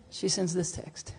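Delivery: slow hushed build-up; whisper. Real, not acted. Setting up the wife's reply, slow suspenseful whisper.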